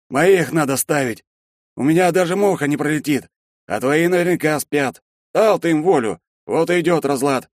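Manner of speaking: booming Shchedrin. A narrator's reading. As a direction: wave it off with bluster.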